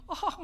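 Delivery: high, short burst of laughter; imitated laugh. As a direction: mimic an audience cracking up. 사람들이 웃는 모습 흉내. (웃음소리 흉내)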